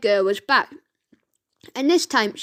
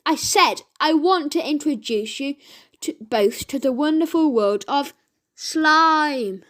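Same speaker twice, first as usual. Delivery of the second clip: insistent call; 2 semitones higher than usual. Acted. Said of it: "repeated Ned".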